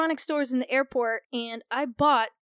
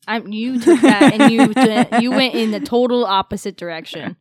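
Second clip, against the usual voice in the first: laughing; 12 dB louder than usual. Real, not acted. Laughing protest.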